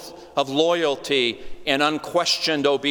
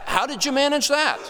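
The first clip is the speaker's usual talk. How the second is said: amazed question; 11 semitones higher than usual. Pretend. Paul quizzing the jailer about the prisoners, astonished. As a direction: pitch jumps way up in disbelief.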